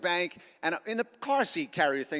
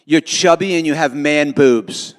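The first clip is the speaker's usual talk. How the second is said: blunt text read; 3 semitones lower, 11 dB louder, slower than usual. Retold or imitated. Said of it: "She texts me the same thing".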